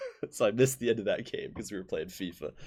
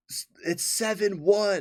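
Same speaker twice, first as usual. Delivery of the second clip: play-acted, very high, very slow holler; 11 semitones higher, 5 dB louder than usual. Retelling a grandpa calling out a score after a water slide: imitating grandpa yelling. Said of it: "my grandpa just yells".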